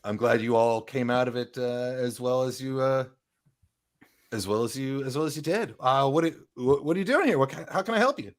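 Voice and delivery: a hint of a friendly boss checking in; brisk merchant woman. Lenine welcomes the adventurers back, brisk and friendly, lightly voiced.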